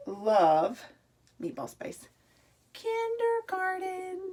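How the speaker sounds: read aloud. Shown as a demonstration. Reading the shirt to the class.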